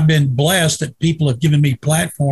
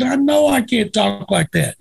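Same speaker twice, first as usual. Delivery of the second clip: higher-pitched, mock-defensive comeback; retold protest; 6 semitones higher than usual. Guest answers the angry radio host, mock-defensive. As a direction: protest back as in a retold argument.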